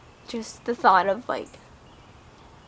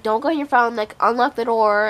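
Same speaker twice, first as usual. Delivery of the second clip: mom scolding; 2 semitones higher, 6 dB louder than usual. Retold or imitated. Mom scolding through locked door.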